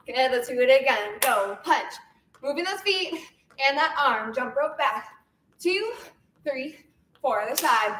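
energetic fitness class cueing; aerobics instructor. Acted. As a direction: count the class through each move. Leads workout cueing counts.

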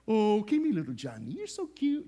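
put-on cooing at a baby, voice swooping up; baby talk. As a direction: fuss over a tiny baby. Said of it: "you start acting like that".

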